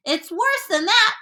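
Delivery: high, slow exclamation; alarmed cry. A narrator's reading. Police chief outdoes the fire chief, crying out in alarm. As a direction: cry it slowly and high in dread. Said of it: "cried the chief of police".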